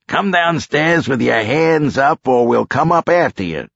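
high, forceful call up the stairs; yelling. A narrator's reading. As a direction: warn a suspect hiding upstairs. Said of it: "Dino yelled".

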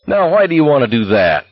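high, indignant protest; crying out. A narrator's reading. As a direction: call it out, pitched well up. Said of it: "Scram cried".

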